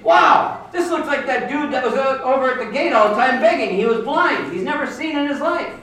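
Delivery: a bystander's amazed exclamation; amazed neighbors. Retold or imitated. Neighbors marvel at healed man.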